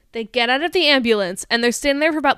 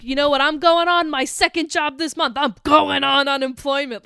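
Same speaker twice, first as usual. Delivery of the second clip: snappy; 2 semitones higher than usual. Retold or imitated. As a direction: fire back like a fed-up waitress. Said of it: "she's so snappy".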